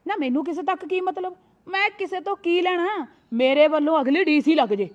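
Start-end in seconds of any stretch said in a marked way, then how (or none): 3.3-4.9 louder, flaring up in anger; a sudden angry burst. Acted. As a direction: snap it out in a huff. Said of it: "ਤੂੰ ਤਾਂ ਗੁੱਸਾ ਕਰ ਗਈ".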